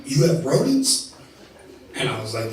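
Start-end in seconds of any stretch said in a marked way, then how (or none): 0.0-1.1 higher, louder, slow surprised question; hammed-up shocked question; mock shock. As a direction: recoil at the news. Friend shocked.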